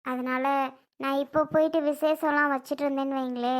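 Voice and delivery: a hurt mother's weary, subdued refusal; sad resignation. Acted. Mother turning down Ajay's money, subdued and sad.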